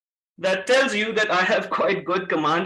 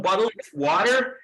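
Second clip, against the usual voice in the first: American accent. Shown as a demonstration. Trainer gives class an example, American accent "bottle of water". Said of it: "You will say".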